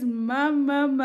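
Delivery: put-on high, loud baby call; imitated baby cry. Mother copying the cry that summons her, high mock wail. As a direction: wail it like a baby wanting to be held. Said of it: "Once he says".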